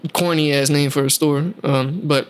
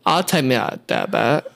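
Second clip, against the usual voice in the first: mocking a voice; 5 semitones lower than usual. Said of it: "you mock that, that poor man's voice".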